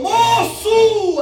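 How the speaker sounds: sudden high loud call of "Moço!"; prophetic cry. Retold or imitated. Prophetess calling to the kneeling man, high loud cry. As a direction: cry out "Moço!" as God speaking through her. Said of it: "Deus falou".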